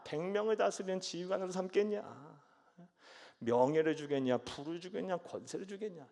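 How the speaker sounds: loud scornful questions fading at the end; mocking taunt. Saul taunting his servants about David's rewards, scornful. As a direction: taunt them like a bitter king. Preacher acts Saul's taunts.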